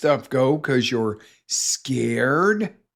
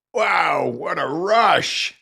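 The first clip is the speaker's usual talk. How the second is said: thrilled; 5 semitones higher, much slower than usual. Retold or imitated. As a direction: shout out the rush. Thrilled after roller coaster.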